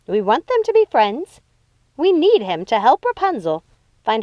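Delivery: lightly voiced commanding elder sister; Lucinda's voice.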